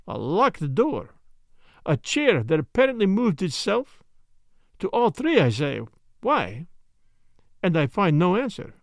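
a hint of a precise, questioning Belgian sleuth; Poirot. Story figure, Belgian detective.

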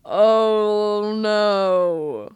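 sudden dread at what's next; alarmed. Real, not acted. Finds pictures in journal.

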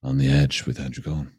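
low, intimate into the mic; deep close-mic podcast host; sexy close-mic voice. Shown as a demonstration. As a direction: lean into the mic and purr it. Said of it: "he got close to his mic".

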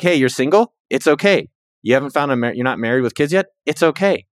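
question, then an easy comforting answer; reassuring self-talk. Retold or imitated.

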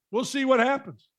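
usual speaking voice

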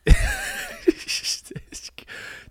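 high, breathless laughing fit; wheezing laugh. Real, not acted. Boyfriend amused by the grandma remark, wheezing laugh. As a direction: crack up into a wheeze.

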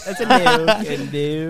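put-on British phrase; British accent. Shown as a demonstration. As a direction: copy it in a mock British accent. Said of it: "with a British accent".

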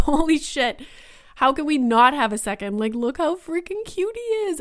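rising delighted outburst; excited gushing. Retold or imitated. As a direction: squeal it like you can't believe how cute he was. Gushing over old baby photos.

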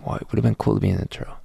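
rushed, baffled re-reading of a friend's words; puzzled fast replay. Retold or imitated. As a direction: rattle the line off quickly, turning it over. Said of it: "Wait, what does he mean?".

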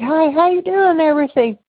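light imitation of an eager hello; cheery greeting. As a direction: greet her like an old friend you're happy to see. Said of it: "It's like".

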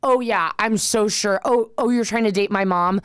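drawn-out mock sarcasm of a bratty kid; attitudey child. Mocking TV kids to mom's new date, attitudey child. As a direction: lightly mimic a child actor with attitude. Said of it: "a attitudey child".

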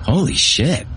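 frantic outburst at a gory shock; frantic yell. A narrator's reading. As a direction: blurt it out in a panic. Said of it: "Bate yelled frantically".

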